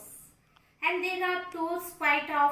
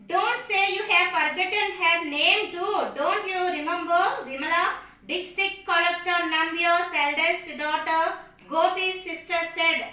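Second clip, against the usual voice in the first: scolding sister; 2 semitones higher, 7 dB louder than usual. A narrator's reading. Sister scolding her forgetful mother, loud and exasperated. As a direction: make her remember, loud and firm.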